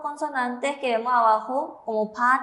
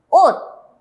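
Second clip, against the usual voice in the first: stressed demo; 6 semitones higher, 9 dB louder than usual. Shown as a demonstration. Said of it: "La siguiente sílaba es".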